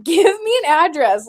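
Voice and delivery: mildly fed-up retelling of a demand; retold frustration. Retelling what they told a friend in Calgary, frustrated. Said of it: "it frustrates".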